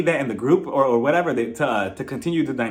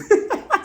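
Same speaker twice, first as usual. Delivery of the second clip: high burst of laughter; real amused laugh. Real, not acted. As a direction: crack up briefly, high. Laughs after retold comeback.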